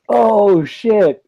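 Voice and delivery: Morgan Freeman. Retold or imitated. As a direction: imitate a man launched into the air, stretching the words. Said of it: "Morgan Freeman is sitting in, like, a catapult".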